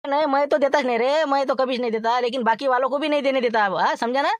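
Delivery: high, loud put-on thin voice; Laxman's thin voice. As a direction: squeeze the voice thin and high to pass as someone else. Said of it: "बरोबर बारीक आवाज काढतो".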